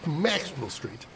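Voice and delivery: slow, drawn-out Chicago accent. Shown as a demonstration. Streamer possessed by the city's spirit, slow Chicago accent. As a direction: let Chicago take over, stretching each word. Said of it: "The spirit of the city takes me over".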